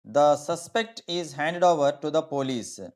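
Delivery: slow example with "suspect" stressed right at the start; noun stress in "suspect". Shown as a demonstration. Teacher showing students the noun form, stress on first syllable of "suspect". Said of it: "ఈ ఎస్ ముందు".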